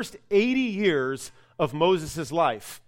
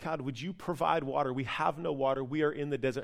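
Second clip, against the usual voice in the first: pleading cry; 4 semitones lower, 7 dB quieter than usual. Retold or imitated. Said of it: "Moses cries out to God".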